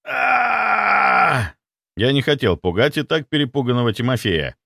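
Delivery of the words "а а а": pain scream. A narrator's reading. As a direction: cry out from searing pain. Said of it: "сдержать крик было не в моих силах".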